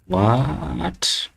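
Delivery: high, startled what at the broken layout; surprised what. Real, not acted. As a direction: react in disbelief to the screen. Layout breaks unexpectedly.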